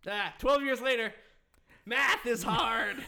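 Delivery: loud, high self-mocking laugh through words. Real, not acted. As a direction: laugh at your own mistake. Laughing at own math slip.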